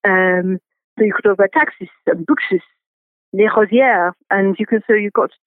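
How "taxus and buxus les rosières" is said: lightly put-on French accent. Shown as a demonstration. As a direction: plant names in a French accent. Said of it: "botanical Latin in a French accent".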